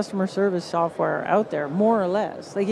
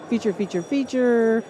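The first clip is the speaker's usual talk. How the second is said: slow droning repeat. Shown as a demonstration. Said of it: "listing monotonously".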